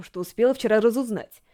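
ordinary delivery, nothing marked

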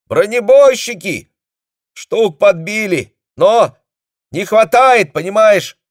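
high, loud thin squeak; a tiny voice straining down the wire; mosquito squeak. A narrator's reading. Company commander squeaks his report down a broken line. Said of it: "по-комариному пропищал голос".

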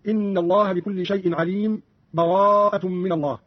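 slow recitation, short silence after عليم without breathing, then براءة; breathless brief pause. Shown as a demonstration. Teacher demonstrates sakt, a breathless hush after عليم before براءة. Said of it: "السكت بدون تنفس".

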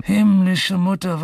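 drawn-out, high plea; imploring cry. Acted. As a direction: cry out to heaven for help. Pleads to heaven for memory.

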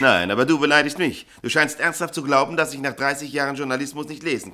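stern rebuke. Acted. Chief editor scolding his reporter, stern. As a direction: turn the insult back on him.

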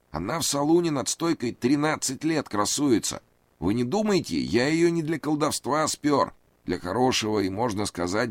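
high, anxious pleading man; nervous high voice. A narrator's reading. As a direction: raise the pitch, plead nervously. Reid voiced.

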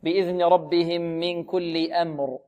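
slow recited بإذن ربهم من كل أمر; Quran recitation. Shown as a demonstration. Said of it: "لا بد من تلطيف الهمزة".

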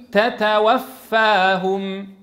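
very slow تتوفاهم with each ت stopped then breathed; careful double taa. Shown as a demonstration. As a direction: spell out تتوفاهم slowly. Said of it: "فتقول".

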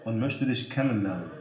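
lightly seductive woman's voice; a hint of a flirty caller, softening; breathy purring seductress. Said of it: "mit verführerischer Stimme". (leicht verführerische Frauenstimme)

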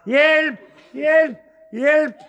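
high, loud cries of "Hjælp!" from up a tree; man stuck up a birch tree yelling for help, high and loud; shouting for help. Retold or imitated. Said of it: "og råbte".

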